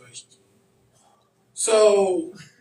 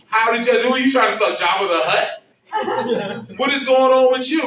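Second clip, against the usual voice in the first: incredulous scolding; 4 semitones higher than usual. Retold or imitated.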